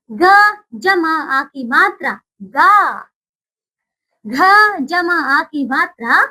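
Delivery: each letter plus the aa sign, spoken slowly; slow spelling out. Shown as a demonstration. Teacher spells out letters for children, slowly. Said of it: "चलिए बोलिए अब इसे।".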